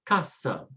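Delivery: casa with a weighted CA; stress on next-to-last syllable. Shown as a demonstration. Teacher applies the first stress rule, stressing casa's first syllable. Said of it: "the stress next to the last".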